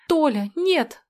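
high, loud begging cry; pleading cry. Acted. Girl begs Tolya to stop fighting, high pleading cry. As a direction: beg him to stop with NO ringing out. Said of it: "взмолилась я".

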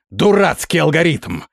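high-pitched exasperated outburst; angry squeal. A narrator's reading. Prince rejects the officer's emergency procedure, squealing angrily. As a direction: squeal it in indignation. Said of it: "взвизгнул князь".

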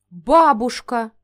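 gasped-out word, slow and loud; stunned gasp of a name; breathed out. A narrator's reading. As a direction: exhale the name in shock. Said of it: "выдохнула".

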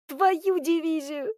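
slow, high startled curse; girl slipping on a breaking branch; startled oath. A narrator's reading. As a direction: blurt it as the branch gives. Branch breaks under her.

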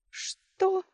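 high mocking what; teasing, amused surprise. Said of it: "насмешливо вскинула бровь".

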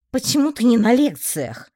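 Galina, caught red-handed, asks startled; bewildered question. A narrator's reading. Caught rummaging in the roommate's things, bewildered. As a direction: caught out, blurt it in confusion. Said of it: "растерянно спросила она".

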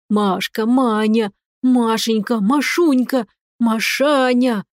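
lightly voiced squeal of pet names, drawn out at the end; a hint of a frantic squeal. Uncle cat begging his niece, mildly squealing. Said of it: "не своим голосом визжал мне в ухо дядя".

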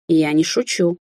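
usual speaking voice

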